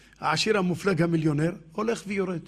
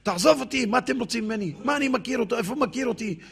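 acted angry dismissal, raised pitch; angry yelling; 4 semitones higher than usual. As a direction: rail at an unwanted visitor, moderately heated. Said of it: "הוא צעק, כעס".

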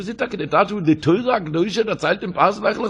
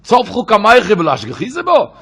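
retold cry out; 3 semitones higher, 7 dB louder than usual. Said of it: "Sie schreit für Henke".

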